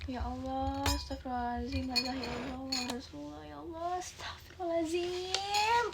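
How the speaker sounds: lamenting mother. Acted.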